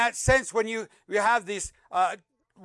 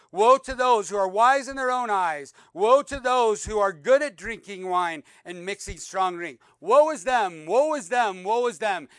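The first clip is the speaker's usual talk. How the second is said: prophetic denunciation; 5 dB louder than usual. Acted. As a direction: thunder the prophet's curses at the crowd. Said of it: "He says".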